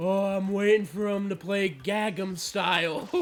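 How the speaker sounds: put-on acted drunken, slowed speech. Describing a scene from a Disney sitcom, Adam Sandler drunk voice. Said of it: "in the most drunk voice I've ever heard".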